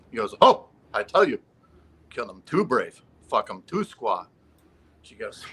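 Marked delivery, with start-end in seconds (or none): 0.4-4.3 joke Native character. Acted. Second man answers the insurance lady, lightly hammed-up proclamation. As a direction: open big, then settle towards your own voice. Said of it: "the second Indian comes in".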